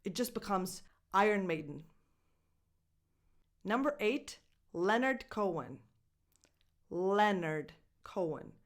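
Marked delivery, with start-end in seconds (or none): 1.1-1.8 the band's name run together as one unit; faster speech. Shown as a demonstration. Teacher showing how it becomes, faster speech. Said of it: "if you speak faster, it just becomes". 6.9-8.5 the singer's name slowly as LEN-urd KOH-un; silent O. Shown as a demonstration. Teacher sounding out the name for learners, silent O. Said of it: "you don't pronounce the O".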